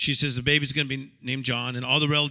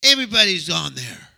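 mock complaint; 7 semitones higher, 6 dB louder than usual. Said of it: "And I'm like".

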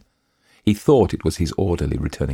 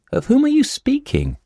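high, startled alarm, much higher pitch; alarmed question; 5 dB louder than usual. A narrator's reading. Lisa asks Tomsky, fearing discovery, in high alarm. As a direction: ask it as if caught out, voice jumping up. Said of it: "she'd asked in alarm".

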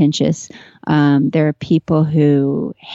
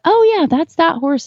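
lightly voiced knowing friend; a hint of Pat, high and eager; imitating Pat; 10 semitones higher than usual. Pat naming horses from a photo, lightly imitated. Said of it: "she's like".

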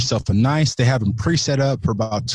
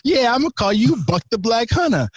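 much higher, laughing hype; buddy christening him; 11 semitones higher than usual. Retold or imitated. Buddy naming him Buck the Black Hunter, much higher and laughing. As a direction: crown him with the nickname, grinning. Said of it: "my buddy looks at me and he was like".

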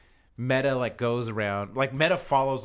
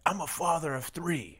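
slow, measured LeBron quote; a hint of LeBron's calm retort; proud deadpan dad line; LeBron's comeback; 5 semitones higher, slower than usual. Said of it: "someone called him a bitch was like".

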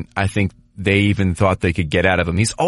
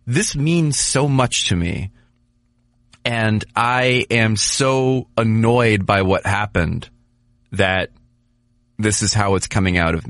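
slow, pitched-up imitation of a frustrated player; imitating annoyed Couture; slower than usual. Podcaster imitating Couture sulking after a loss, slow and pitched up. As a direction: play the player who cares too much and is fed up. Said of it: "in more of a".

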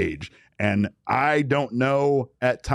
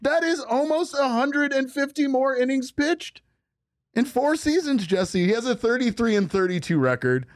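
southern attorney; 12 semitones higher than usual. Pretend. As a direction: hammer the numbers to the jury. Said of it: "southern attorney, sir".

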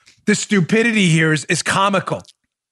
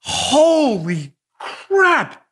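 mock disbelief; 3 semitones higher, much slower than usual. Real, not acted.

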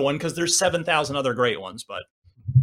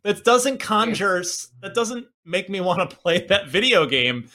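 laughing; 5 semitones higher than usual. Real, not acted. Joking about game name, laughing.

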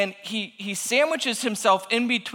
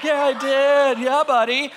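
louder, higher retold boast; proud excitement; 6 semitones higher, 4 dB louder than usual. Dad answering his three-year-old, retold proud excitement. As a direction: crow it back like a triumphant dad.

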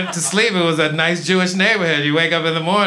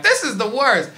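put-on upset white girl; 5 semitones higher than usual. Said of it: "white girls get upset and they're like".

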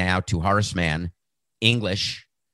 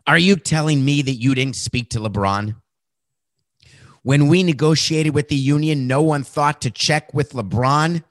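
exasperated commissioner; 6 semitones higher, 3 dB louder than usual. Retold or imitated. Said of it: "Adam's calling his deputy commissioners".

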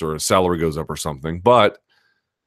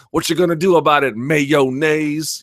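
higher, mocking drill instructor sneer; drill sergeant taunt; 7 semitones higher than usual. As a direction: taunt him like a tough movie drill sergeant. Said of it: "Officer and a Gentleman kind of thing".

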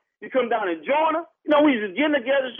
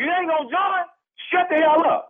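angry; 5 semitones higher than usual. Real, not acted. Tailgater to complaining neighbor on the phone, angry. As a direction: tell him off hard and short.

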